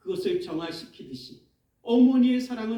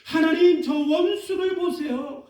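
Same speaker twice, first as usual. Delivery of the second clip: raised, pleading cry to God; preacher voicing David's bitter plea; David's vengeful prayer; 6 semitones higher than usual. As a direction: plead for vengeance, voice lifted higher. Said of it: "다윗이 하나님을 향해서 이렇게 얘기합니다".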